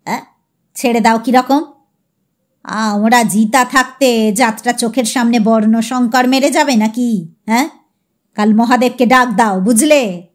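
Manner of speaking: put-on old patriarch huffing; indignant old Choudhury. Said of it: "সেটা ঈষৎ চাগিয়ে বললেন".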